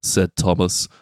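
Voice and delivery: slow Scouse storybook narration; lightly done Scouse narrator; a singer. Acted. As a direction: read a children's tale in a Liverpool accent. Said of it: "unless it's like a singer".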